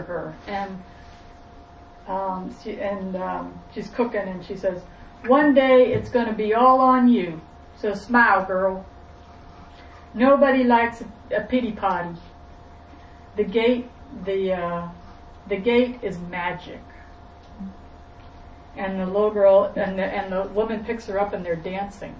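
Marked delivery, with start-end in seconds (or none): 5.3-16.8 lightly southern cook giving advice; a touch of Southern accent; mild southern voice, starting loud. Acted. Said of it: "I have to put on a southern accent".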